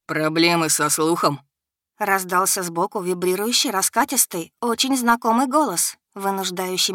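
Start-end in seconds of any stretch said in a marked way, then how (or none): 0.1-1.4 put-on sneering drunk. A narrator's reading. Drunk loader taunts heroine.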